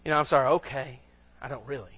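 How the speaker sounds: low, very soft grudging okay; insincere apology. Acted. Someone apologizes because it looks good, half-heartedly. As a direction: mumble it for appearances, not meaning it. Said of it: "it doesn't look good not to say".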